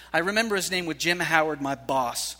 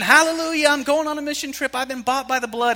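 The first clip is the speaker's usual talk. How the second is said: high, loud shout of a jubilant convert; mock-screamed praise, pitched way up; imitated screaming; 7 semitones higher, 8 dB louder than usual. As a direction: act out a convert screaming hallelujah. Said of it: "he's screaming".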